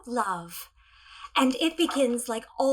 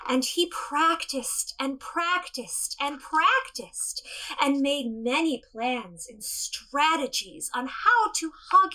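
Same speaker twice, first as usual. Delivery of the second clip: gentle storybook narration; storytelling. Acted. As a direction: tell it to children, unhurried. Tells tiny T-Rex story.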